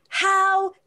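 woman with her cart scolding the speaker, mock indignant and slow. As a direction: stretch out the outrage like an offended shopper.

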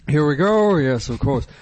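lightly voiced comedian impression; a hint of a famous comic's voice; Robin Williams. Warming up an impression, lightly voiced. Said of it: "Layer one, Robin Williams".

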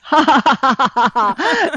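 read-out, emphatic ha-ha-ha; scornful fake laughter read from a post; mock laugh. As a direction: laugh in spoken syllables, mockingly. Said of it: "So she says".

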